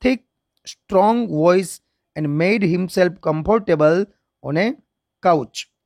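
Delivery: slow, measured English reading; story read-aloud. Shown as a demonstration. Teacher reading a long story sentence to students, slow read-aloud.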